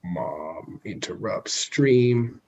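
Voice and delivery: slow, drawn-out headline voice; mock headline announcing. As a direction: announce it like a news title. Joking headline about mom interrupting.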